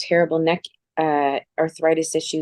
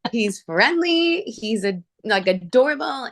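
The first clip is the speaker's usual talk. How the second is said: high, slow doting gush; 4 semitones higher than usual. Retold or imitated. Owner doting on a Pomeranian puppy, high and slow. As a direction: melt over the little dog.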